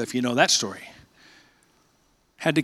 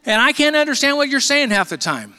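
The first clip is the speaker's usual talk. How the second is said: radio voice imitation; 8 semitones higher, 4 dB louder than usual. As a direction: mimic the old radio man telling him off. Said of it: "He said".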